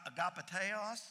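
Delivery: agapeteos said ah-gah-peh-TAY-os; Greek word. Shown as a demonstration. Pastor teaching the Greek agapeteos. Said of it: "the Greek is".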